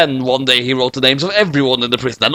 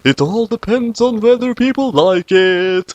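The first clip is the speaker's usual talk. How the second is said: laughing high; 7 semitones higher than usual. Acted. Reader voices a chuckling aside.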